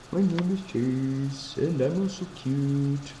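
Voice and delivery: slow, lightly voiced baby; voicing the baby. Speaking for the baby in a slow, lightly put-on voice.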